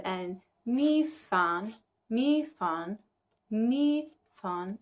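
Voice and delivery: "Mi Fan" drawn out slowly, third then fourth tone; tone practice. Shown as a demonstration. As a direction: try "Mi Fan": dip on Mi, falling on fan. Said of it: "I'm trying to do third and fourth tone".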